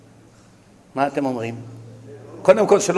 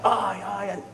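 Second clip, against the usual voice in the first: mock wail; 3 semitones higher, 6 dB quieter, much faster than usual. Wife finds husband having a heart attack, mock wailing. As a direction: cry out in acted alarm.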